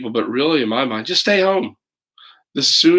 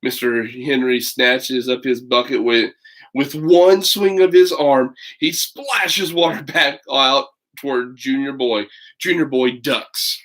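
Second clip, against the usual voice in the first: put-on lively read-aloud for children; story narration; slower than usual. A narrator's reading. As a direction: tell it like a picture book to kids. Reads picture book aloud.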